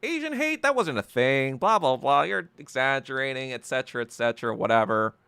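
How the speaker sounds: mocking the critics, dismissive and quick at the end; dismissive mock quote. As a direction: parody their brushing it off. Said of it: "they were like".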